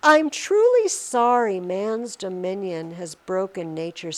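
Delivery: deliberate, even recitation; poem reading. Acted. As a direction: read the apology to the mouse as verse. Reads next stanza of the poem.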